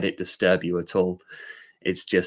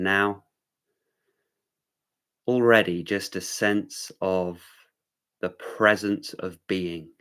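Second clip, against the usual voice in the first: unhurried meditation guiding with long pauses; measured meditation-teacher delivery; guided centering. Real, not acted. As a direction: ease listeners into stillness, phrase by phrase. Leads a brief centering.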